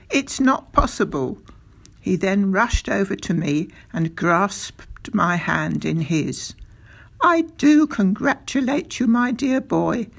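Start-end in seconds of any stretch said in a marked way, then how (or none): 0.1-1.4 high, delighted disbelief; amazed cry. A narrator's reading. Doctor reacting to astonishing good news, amazed cry. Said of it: "he cried". 7.2-10.1 high, louder, hearty congratulation; jubilant cry. A narrator's reading. Doctor pumping the boy's hand, jubilant cry. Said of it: "he cried".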